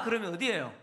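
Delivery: ordinary delivery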